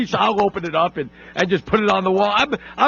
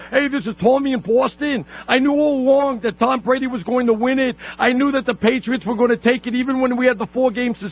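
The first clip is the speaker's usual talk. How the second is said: lightly voiced boastful caller, higher pitch; Tommy in Boston; 4 semitones higher than usual. Host mimics a fan calling in to gloat, lightly voiced boasting caller. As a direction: put on a crowing local fan, a little higher. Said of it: "somebody by the name of Tommy in Boston".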